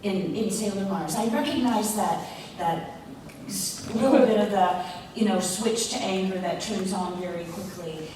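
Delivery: a light fan voice; imitating a fan. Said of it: "people would say".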